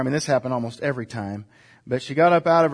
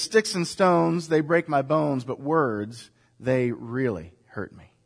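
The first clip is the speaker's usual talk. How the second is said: slower and fading softer toward "really hurt me"; a mildly sad correction of the children's saying; somber truth; 3 semitones lower, 4 dB quieter than usual. Shown as a demonstration. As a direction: let the last words sink quietly. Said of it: "The real truth is".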